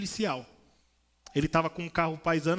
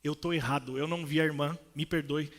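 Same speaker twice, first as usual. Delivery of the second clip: gentle apology; 4 semitones lower than usual. Retold or imitated.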